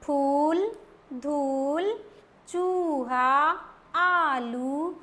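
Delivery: each word with a rising long oo; teacher's quick rhythmic reread; brisk read-back. Shown as a demonstration. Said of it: "वापस read करते हैं".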